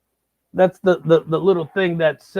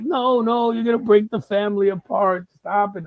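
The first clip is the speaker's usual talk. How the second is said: higher, urgent mock wife; pleading wife; 5 semitones higher than usual. Wife begging husband to stop buying, higher pleading. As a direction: beg him to stop, lightly hammed. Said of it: "But she's there like".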